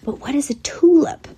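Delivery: whispered question; a soft unvoiced whisper; quietly. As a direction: breathe it out in a hushed whisper. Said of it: "said Tsutsa quietly".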